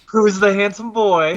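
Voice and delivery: high cooing, like praising a puppy; high teasing coo; cooing pet voice. Pretend. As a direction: coo at him like a proud owner. Teasing baby talk to player.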